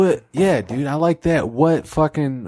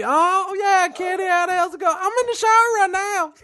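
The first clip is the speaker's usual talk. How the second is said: redneck God. Acted. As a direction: call out high like a redneck. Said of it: "It's some redneck".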